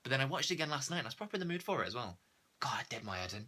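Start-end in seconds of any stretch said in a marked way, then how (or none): 2.6-3.5 whispered in real exasperation; a fed-up whisper about the film; exasperated whisper. Real, not acted. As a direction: breathe it out under your breath, fed up.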